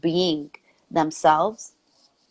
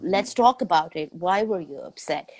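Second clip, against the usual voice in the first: calm parent; 2 semitones lower than usual. Retold or imitated. Mother answering her upset little son, calm and measured. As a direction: talk it through gently, taking time.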